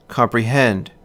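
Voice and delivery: "comprehend" with two light syllables, then stressed "hend"; anapestic stress. Shown as a demonstration. Lecturer giving an example of an anapest, "comprehend" stressed on "hend". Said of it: "rhythm of the anapest".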